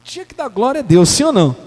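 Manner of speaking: loud shouted rebuke; full-voice pulpit shout; preaching shout. Real, not acted. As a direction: call the church out.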